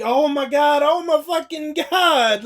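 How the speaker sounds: imitating a collector's panic; mock freaking out. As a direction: play up the horror, half-joking. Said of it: "he's freaking out".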